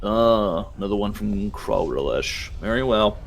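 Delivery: rapid-fire list of turns, barely pausing; a hurried clerk reeling off rights and lefts; rattling off directions. Acted. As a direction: rattle off the directions so fast they blur. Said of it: "start just going so fast you can barely keep it up".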